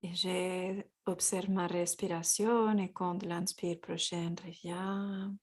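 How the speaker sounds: calm, unhurried guidance with long pauses; guided yoga. Real, not acted. Guides a gentle yoga practice.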